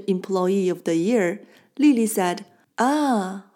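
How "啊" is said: long 啊 of sudden understanding; drawn-out exclamation. Shown as a demonstration. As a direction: stretch 啊 as it dawns on you. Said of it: "is pronounced longer than usual".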